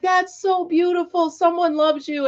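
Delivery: high, gushing praise; sweet admiring guy. Retold or imitated. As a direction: imitate the sweet construction guy admiring the gift. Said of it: "He's like".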